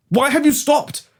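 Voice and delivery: tag. Acted. Baron suddenly stops responding.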